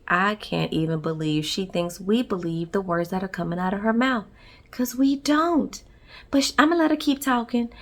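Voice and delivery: quiet disbelieving aside; sarcastic inner voice. Retold or imitated. Sister's face voiced sarcastically.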